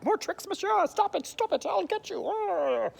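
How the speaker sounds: very high-pitched mock outrage; hammed-up frantic threats; fist-shaking threat. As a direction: rail at him, shaking a fist. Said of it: "Shaking a fist".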